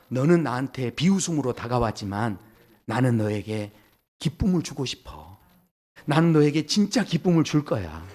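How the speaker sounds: low, gentle voice of God; tender reassurance. Acted. God promising joy to one who laughed at him, tender and low. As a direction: softly offer grace to someone who doubted. God answers mockery with grace.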